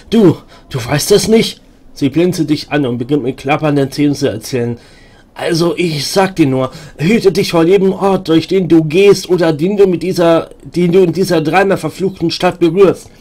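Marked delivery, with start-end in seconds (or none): 5.3-13.1 a slightly higher, urgent warning voice; warning madwoman. Acted. Madwoman warning the stranger about doors, lightly higher. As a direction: lean in and warn him, half-crazed.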